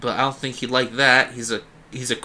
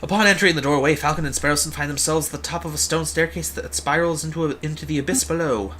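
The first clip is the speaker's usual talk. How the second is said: higher-pitched, dramatic narrator; story narration; 4 semitones higher than usual. A narrator's reading. Narrator describing the descent into catacombs, story narration. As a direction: set the scene like a storyteller.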